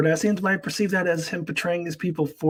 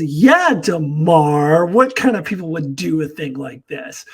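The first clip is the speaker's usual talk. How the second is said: sarcastic retort; 6 dB louder than usual. Retold or imitated. Kira's sarcastic retort to Damar.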